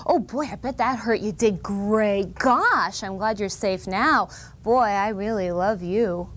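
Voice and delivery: lively, warm mock of an attentive parent; caring parent. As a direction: sound amazed and loving. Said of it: "We need you to go".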